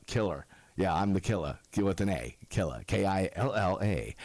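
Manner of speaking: "Killer" said low, ending in an open "ah"; pronounced Killa. Retold or imitated. Correcting a fan, "Killer" said as Killa. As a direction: drop the r from "Killer", low and deadpan. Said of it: "it's actually pronounced".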